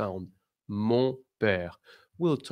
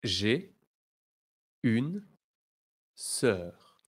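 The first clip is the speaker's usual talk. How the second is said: slow model phrase; much slower than usual. Shown as a demonstration. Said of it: "Now repeat after me".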